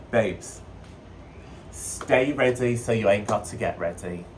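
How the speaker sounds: put-on playful bastardized UK accent; mock British accent. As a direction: slip into a rough UK accent. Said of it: "changing my voice again".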